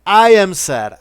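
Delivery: high, loud wail of "I am sad"; loud lament. Real, not acted. Streamer mourning the unfinished game, loud wail. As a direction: cry out the sadness.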